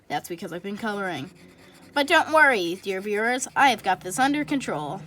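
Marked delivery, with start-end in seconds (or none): 1.9-5.0 playful little movie robot voice. Acted. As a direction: sound like a reassuring little robot. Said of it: "I sounded like a little robot".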